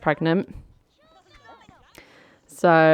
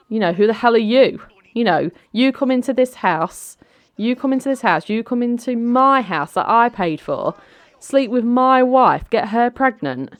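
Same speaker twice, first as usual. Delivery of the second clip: high-pitched, insistent tirade; outraged confrontation; 7 semitones higher, 4 dB louder than usual. Acted. Wronged ex confronting the man in his house, outraged. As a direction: build the accusations in a raised, high voice. Daniel confronts Brandon in acted quarrel.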